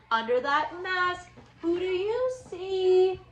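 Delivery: lively storybook read-aloud for little ones; reading to children. Acted. Teacher reading a Halloween book to her class, lively storybook voice. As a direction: read it like story time for kids.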